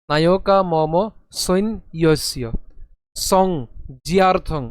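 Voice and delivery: নায়কা মম সৈন ইয়স্য slow and even; measured recitation; slow full line. Shown as a demonstration. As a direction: recite the whole line slowly. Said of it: "একসাথে যদি উচ্চারণ করি".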